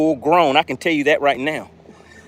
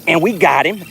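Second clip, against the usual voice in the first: excited; 6 semitones higher than usual. Real, not acted. Excited catch on stream.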